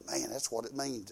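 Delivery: unvoiced whisper of sudden understanding; whispered realization. Preacher recalling the moment it hit him, whispered. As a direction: breathe it out like a secret dawning.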